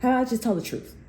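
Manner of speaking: hammed-up witch taunt; old witch. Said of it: "and they're like that".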